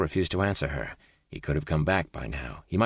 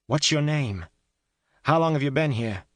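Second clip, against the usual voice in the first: shouting; 10 semitones higher than usual. A narrator's reading. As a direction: call out demanding an answer. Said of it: "she shouted".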